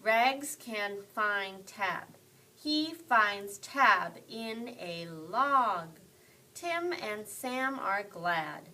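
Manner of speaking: slow, choppy, one word at a time; slow word-by-word reading. Shown as a demonstration. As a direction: sound each word out slowly like a beginner. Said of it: "not like a robot".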